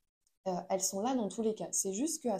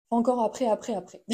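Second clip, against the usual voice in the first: louder, pushing each après harder; escalating mock exasperation; 6 dB louder than usual. Coach mocking endless excuses, louder exasperated build. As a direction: pile on the après like it never ends.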